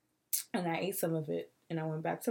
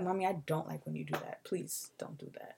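small, hushed plea to mom, fading to a whisper; mommy please, soft and small; soft pleading; 3 semitones lower, 5 dB quieter than usual. Retold or imitated. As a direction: beg gently like a child.

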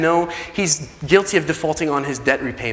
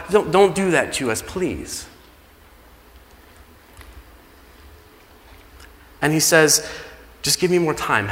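pleading. Acted. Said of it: "pleads and begs".

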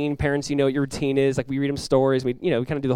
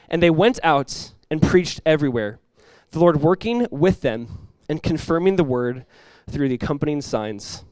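scripture reading. Acted. Reads scripture aloud.

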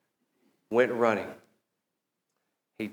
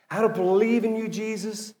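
high-pitched quote, softening on the name; mock declaration; 8 semitones higher, 3 dB quieter, faster than usual. Pastor voices a person rejecting Jesus, high and declaratory. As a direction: pitch it up as someone else's words.

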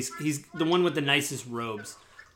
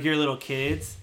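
condescending. Acted. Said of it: "he talks in a really condescending voice".

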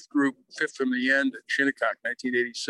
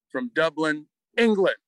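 retold announcing slip. Starter introducing the special observer wrongly, proudly announcing. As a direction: proclaim it confidently, as if announcing.

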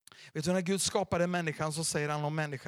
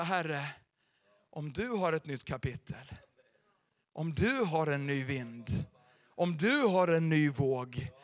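humble prayer; 4 semitones lower, slower than usual. Pretend. Humble prayer quoted in sermon.

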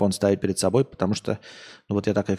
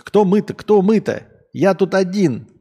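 high, loud outraged yelling; indignant shout; 9 semitones higher, 7 dB louder than usual. Real, not acted. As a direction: shout back at the comment in disbelief. Возмущён словом «мы». (возмущённый выкрик)

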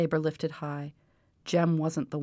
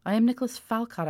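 higher and louder, proud outrage; indignant; 7 semitones higher, 5 dB louder than usual. Acted. Nobleman asserts his title to the old man, indignant. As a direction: pull rank on him.

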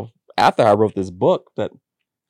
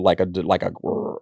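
imitated growl; 5 semitones lower, 5 dB quieter than usual. Recalling a demonic sound from childhood, mild growl. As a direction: growl softly like something demonic. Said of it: "like a demonic type sound".

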